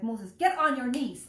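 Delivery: slow, loud stern command; firm mother. Retold or imitated. Mother ordering scared son, slow stern command. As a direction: lay down the law, slowly. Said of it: "I was like".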